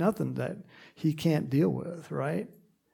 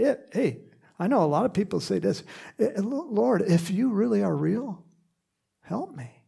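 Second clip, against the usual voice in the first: mock timid prayer; 5 semitones higher than usual. Voicing a doubting seeker's prayer.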